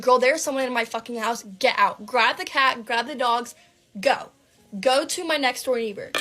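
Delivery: mildly panicked, emphatic command; urgent warning. Retold or imitated. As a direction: fire off frantic instructions to a friend. Acted frantic texts warning her roommate.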